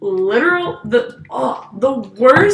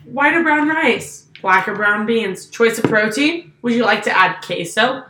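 rehearsed order spiel. Retold or imitated. Worker reciting questions to a customer, rehearsed spiel. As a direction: rattle off the script by rote, measured. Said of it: "So, I have it rehearsed".

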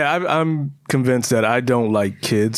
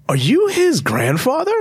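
mock little girl; 11 semitones higher, 3 dB louder than usual. Little girl quoted at party.

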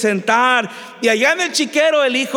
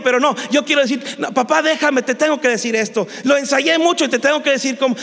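fast, higher-pitched pleading; flustered insistence; 4 semitones higher, faster than usual. Acted. Son begging his father to let him finish, flustered. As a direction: push to get the rehearsed speech out.

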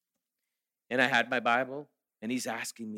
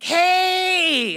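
a loud, high call of hey across the yard; shouted greeting; 14 dB louder than usual. Retold or imitated. Neighbour spots him getting out of his car, shouted hey. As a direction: call out to a neighbour you just spotted.

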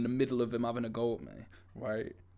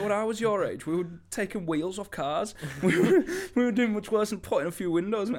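higher, louder laughing reminiscence; imitating his dad laughing about his own wild youth; 9 semitones higher, 9 dB louder than usual. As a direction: chuckle through it like an amused dad. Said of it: "he just laughed and he was like".

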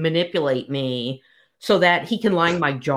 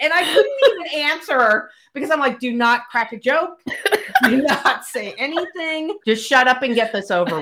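high, teary laughter; barely holding it together; real helpless laughing; laughing near tears; 8 semitones higher than usual. Real, not acted.

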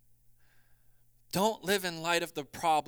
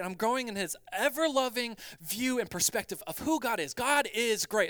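lightly hammed-up cheery believer, higher and bright with excitement; mock upbeat piety; 5 semitones higher, 4 dB louder than usual. Preacher mocking believers who claim constant joy, hammed-up cheer. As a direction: parody the church-smile voice, all blessed and fine. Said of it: "And we can say all we want".

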